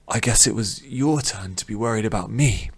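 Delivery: hoarse, croaky voice; croaking. Acted. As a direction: croak out the words. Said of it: "Rin croaked".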